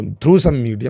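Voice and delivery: "medium" slowed and pushed; teacher stressing "medium" in the definition. Shown as a demonstration. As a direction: lean hard on "medium". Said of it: "मैंने stress दिया कि मैं मीडियम को highlight".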